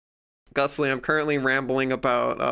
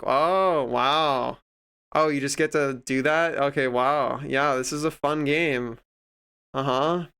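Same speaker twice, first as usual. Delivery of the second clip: passive aggressive. Retold or imitated. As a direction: imitate a sore player feigning fun. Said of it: "literally being that passive aggressive".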